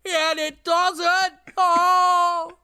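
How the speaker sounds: high slow nasal drawl; Fran Drescher voice. Acted. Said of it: "Says Fran Drescher".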